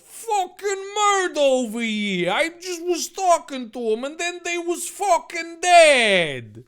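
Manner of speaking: high-pitched loud character yell. Acted. Dave telling guests about the body, yelling. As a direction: cry it out high, in a put-on panic. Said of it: "Dave yelled".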